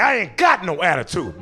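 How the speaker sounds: mock sassy denial; retold attitude. Teen answering cop's attitude question, mock sass. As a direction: deny it with a touch of sass. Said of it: "but I said it like that".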